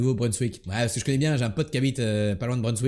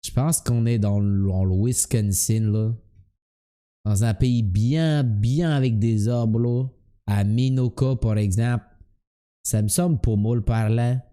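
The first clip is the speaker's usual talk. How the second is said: light comic Québécois impersonation; Québécois accent; 3 semitones lower than usual. Acted. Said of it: "quand tu imites les Québécois".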